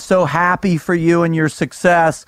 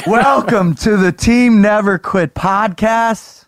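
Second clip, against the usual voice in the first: ringmaster; slower than usual. Acted. Announcing guest like a showman.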